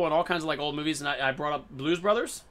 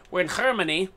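"Germany" with a throaty h at the start; mock German accent. Gamer joking about the German map, mock German accent. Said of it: "I've been talking like a German".

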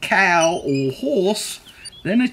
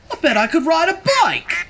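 duck voice; 10 semitones higher than usual. Acted. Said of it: "he thought".

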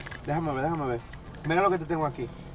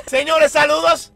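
mock announcer; 4 semitones higher, 5 dB louder, slower than usual. Announcer-style introduction.

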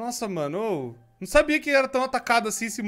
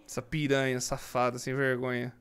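hushed cursing; 13 semitones lower, 12 dB quieter than usual. Real, not acted. Hiding, cursing monster.

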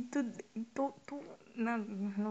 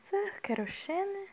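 mock formal; 8 semitones higher, much slower than usual. Reading a formal character line.

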